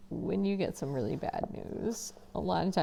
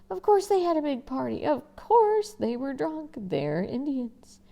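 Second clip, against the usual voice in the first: high, loud, scornful retort; bitter sarcasm; 7 semitones higher, 4 dB louder than usual. Acted. Boy cutting off his father, loud bitter sarcasm. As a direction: spit it out with contempt.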